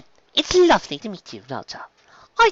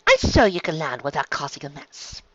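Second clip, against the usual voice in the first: higher-pitched, ladylike scolding; haughty chastising; 4 semitones higher than usual. Acted. Pony chastising the landing dragons, haughty high scolding. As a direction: chastise with an air of authority. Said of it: "Verity chastised the dragons loudly".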